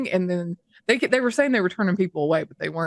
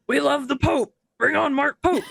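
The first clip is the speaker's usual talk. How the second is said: mocking fickle fans; 7 semitones higher than usual. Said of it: "the next minute you're like".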